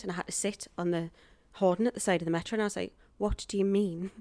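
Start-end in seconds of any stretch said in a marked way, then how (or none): 3.2-4.1 incredulous, growing louder and higher; retold disbelief. Actress told she has the part, acted-out building disbelief. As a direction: build from stunned question to loud protest.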